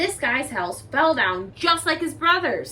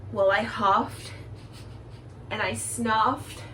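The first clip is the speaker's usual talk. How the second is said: slow, drawn-out buildup rising higher; building to a sneeze; 5 semitones higher, slower than usual. A narrator's reading. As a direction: stretch it like a sneeze coming.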